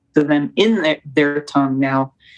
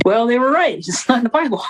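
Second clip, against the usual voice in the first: laughing quote; 6 semitones higher, faster than usual. Retold or imitated. Quoting them, laughing mid-quote.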